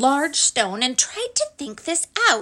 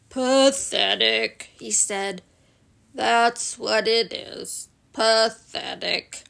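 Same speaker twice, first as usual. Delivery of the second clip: lightly voiced glum donkey, dragging slowly; gloomy Eeyore; slower than usual. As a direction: sigh it out like a sad old donkey.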